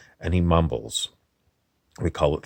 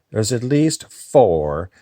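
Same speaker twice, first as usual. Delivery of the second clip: higher, slower, odd other voice; different voice; 5 semitones higher, 5 dB louder, slower than usual. Acted. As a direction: let another voice take over. Repeated in a shifted voice.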